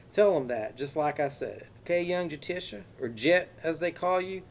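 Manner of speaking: put-on high, loud Texas accent, folksy with a menacing edge; exaggerated Texas accent. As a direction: play the friendly Texan with a threat underneath. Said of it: "said in an exaggerated Texas accent".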